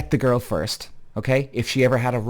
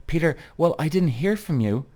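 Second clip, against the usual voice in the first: lightly raised pitch, mock-innocent girlfriend; mock innocent excuse; 3 semitones higher than usual. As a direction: voice her excuse as a flimsy cop-out. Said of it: "That was the cop-out bullshit excuse".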